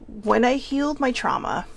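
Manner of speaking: real emotion starting to crack the voice; voice breaking. Real, not acted. Telling her sibling a painful truth, voice breaking. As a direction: let the voice catch as the tears rise. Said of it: "here it comes, can you hear it?".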